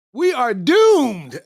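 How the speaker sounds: very slow, resigned doom; slow mock despair. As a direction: drag it out like it's hopeless. Despair after the quote.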